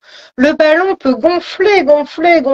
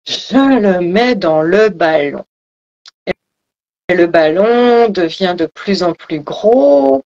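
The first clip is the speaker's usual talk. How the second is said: voix de méditation, plus grave et posée; visualisation guidée; 6 semitones lower than usual. Acted. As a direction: descends dans le grave pour guider l'image. Guide une visualisation du ballon. (guidage apaisé, ton bas et pauses)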